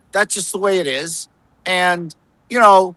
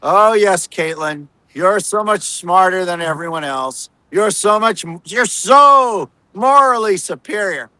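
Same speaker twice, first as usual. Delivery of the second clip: mock fawning. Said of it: "all the other reporters are like".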